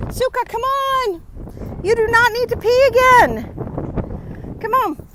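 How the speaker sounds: high, loud, slow scolding of a dog; talking to the dog. Real, not acted. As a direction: coax the dog along, exasperated. Urging dog on walk.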